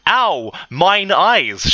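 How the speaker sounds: high mock scream; theatrical high-pitched squeal; excited scream. A narrator's reading. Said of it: "she screamed excitedly".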